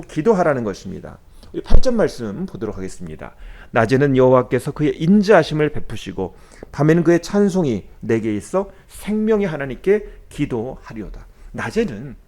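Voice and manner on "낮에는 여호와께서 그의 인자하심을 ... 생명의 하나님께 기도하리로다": scripture reading. Acted. Reads scripture verse.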